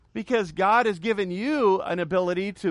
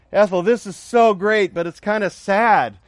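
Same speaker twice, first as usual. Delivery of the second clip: louder, stressing so; delighted husband to his wife; joke husband; 5 dB louder than usual. Acted. Husband tells wife heaven is great, mildly loud.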